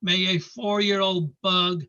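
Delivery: lilting, rhythmic verse reading; poem recitation. Acted. Reader as Nell cursing her drake's killer, rhythmic poem recitation. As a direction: recite the rhyming curse with a steady bouncing beat.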